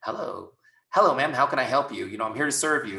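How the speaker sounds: a customer walks up, so greet in service voice. Shown as a demonstration. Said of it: "a customer walks up and it's like".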